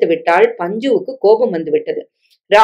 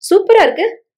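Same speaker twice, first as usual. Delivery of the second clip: delighted; 12 semitones higher than usual. Acted. Rahul delighted by watch gift.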